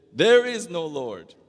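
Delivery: loud, slow retort; atheist's shout. Acted. Atheist neighbor shouting back at the old lady, loud and slow. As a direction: bellow it back across the yard.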